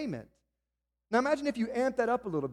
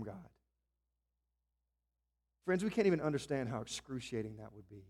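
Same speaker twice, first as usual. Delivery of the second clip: hushed solemn preaching; 6 semitones lower, 5 dB quieter than usual. Acted. Solemn passage on Christ's suffering.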